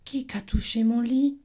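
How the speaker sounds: middle bear voice. Acted. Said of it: "s'écria à son tour Médiours".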